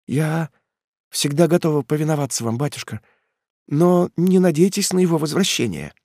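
a daughter gently refusing her father; young daughter Ethel, pleading. A narrator's reading.

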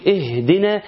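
slow اهدنا with the h breathed out clearly; effortful ha. Shown as a demonstration. Teacher showing a hidden letter, ha made audible. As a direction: push the hidden ha in اهدنا so it is heard. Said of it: "الهاء دي حرف خفاء".

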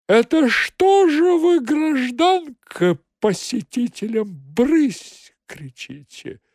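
high, slow, mocking rebuke; cat-faced fat man. Fat cat-man mocking the secretary, high and slow. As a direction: lecture her mockingly.

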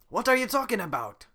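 high, loud incredulous snap; loud exasperated question. Acted. Shrek snapping back at Donkey, loud and incredulous. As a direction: throw the question back at him.

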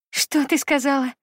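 a mother who can't believe what she heard; stunned disbelief. Acted. Mother stunned by daughter's jab.

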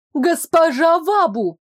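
loud call from afar. Acted. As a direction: shout her name across the street. Служанка зовёт издалека. (громкий оклик издалека)

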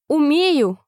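Alice matching the queen's volume; loud reply. A narrator's reading. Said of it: "также громко ответила Алиса".

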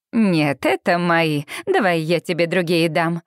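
mildly voiced glamorous friend. Sage answers child.

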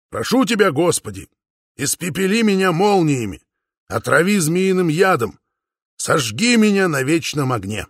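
solemn dictation. A narrator's reading. Father dictates oath and curses.

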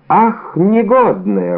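a mild slow exclamation of annoyance; angry exclamation. A narrator's reading. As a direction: drag out the indignant cry. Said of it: "воскликнул комиссар".

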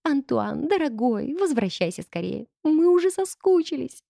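high, playful sing-song voice; sweet flirty purr; playful cooing woman. Acted. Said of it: "игриво пропел нежный женский голосок".

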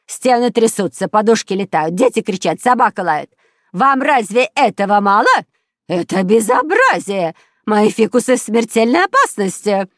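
high, loud indignant tirade; outraged shouting. A narrator's reading. Neighbour reporting noisy family to police, outraged shouting. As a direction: rant at full volume down the phone. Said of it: "кричала в трубку фрау Штрудель".

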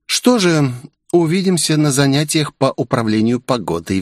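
a hint of a self-important princess; importantly. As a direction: dismiss them with dignity. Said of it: "важно произнесла княжна".

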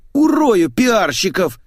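high, drawn-out howl; furious howl. A narrator's reading. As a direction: howl the threat, stretching it out. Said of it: "взвыл Митяев".

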